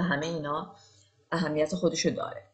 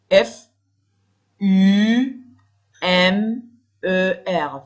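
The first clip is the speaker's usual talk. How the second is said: shouted letter U; loud spelled letter; 2 semitones higher, 9 dB louder, much slower than usual. Shown as a demonstration. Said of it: "spelling aloud".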